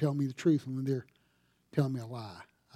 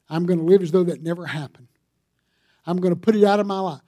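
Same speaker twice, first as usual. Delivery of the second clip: firm resolve; 2 semitones higher, 6 dB louder, faster than usual. Acted. Voicing a resolve to forgive.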